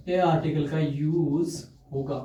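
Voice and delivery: ए drawn out and stressed, slow; teacher repeating the answer with stress on ए. Shown as a demonstration. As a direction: lean on ए in "ए article". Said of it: "कौन से article का?".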